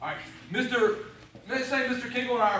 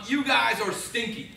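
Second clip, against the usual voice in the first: slow mock bully taunt; slow theatrical villain menace; 3 semitones higher, 5 dB louder, much slower than usual. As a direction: taunt them slowly like a playful villain. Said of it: "I'm gonna pretend to be a bad guy".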